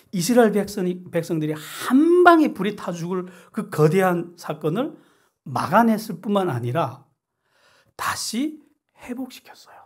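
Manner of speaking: loud, driving sermon climax; preacher building to a fiery climax; fervent preaching. Real, not acted. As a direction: push it like a revival peak. Preaching climax about fiery judgment.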